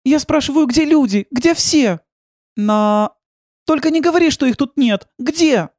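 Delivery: put-on high girlish voice, anxious questions; Milena's voice. A narrator's reading. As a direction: raise the pitch for the young heroine. (высокий девичий голос, тревожно)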